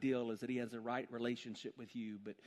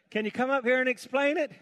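eunuch asking; 11 semitones higher, 13 dB louder than usual. Acted. Eunuch asks Philip.

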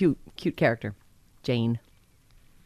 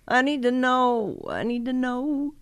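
pleading insistence; 7 semitones higher, slower than usual. Acted. Repeated insistent quote.

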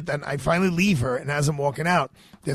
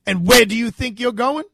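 loud, sharp challenge, pitched up; stern demand; 8 semitones higher, 8 dB louder than usual. Retold or imitated. Guard at the entrance stopping him, loud and stern. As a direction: bark the question at a stranger. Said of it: "She goes".

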